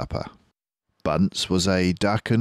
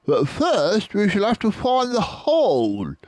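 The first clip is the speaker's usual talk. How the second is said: drip with sarcasm; Bunce sarcastic; 13 semitones higher, 3 dB louder than usual. Acted. Bunce mocking Bean's plan, high sarcasm. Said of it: "said Bunce".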